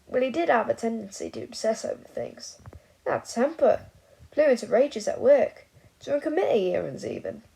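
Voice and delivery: put-on loud tipsy old wizard; rambling drunk old man.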